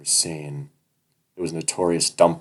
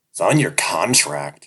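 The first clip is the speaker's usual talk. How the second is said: taunting; 5 dB louder, slower than usual. Acted. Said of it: "he taunts".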